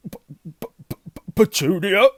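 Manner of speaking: stammering, then a high loud cry; gasping in shock. A narrator's reading. Uncle reads letter and calls his wife, gasping. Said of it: "he gasped".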